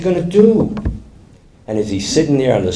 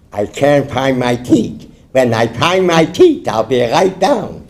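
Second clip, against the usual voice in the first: lightly voiced toothless mumbler; a hint of gummy, unhurried speech; toothless husband. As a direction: talk as if your teeth are out. Man without his teeth answers.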